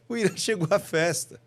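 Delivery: lightly cheerful announcement; joy. Shown as a demonstration. Speaker demonstrates happy news of a party arrival, light joy. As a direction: lift the news with mild delight.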